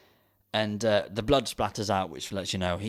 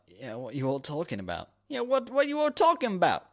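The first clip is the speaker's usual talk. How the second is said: mock American slacker cop; lazy American cop; 6 semitones higher than usual.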